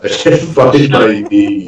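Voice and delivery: slow, dazed repeat; drowsy echo of the line; drugged slur. Retold or imitated. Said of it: "the drugs are still working".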